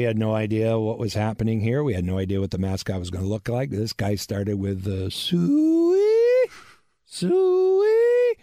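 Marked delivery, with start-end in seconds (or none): 5.1-8.3 long high piercing hog call. Retold or imitated. Guy in the corner calls the hogs with a loud high hog call. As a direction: belt it out like a farmer calling pigs. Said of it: "to do a pig call".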